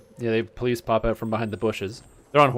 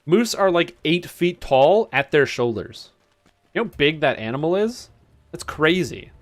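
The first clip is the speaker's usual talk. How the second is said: loud, high, slow and astonished; higher, louder, slowed-down awe; amazed; 4 semitones higher, 4 dB louder, slower than usual. Real, not acted. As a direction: stress how huge moose are. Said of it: "marvels at moose size".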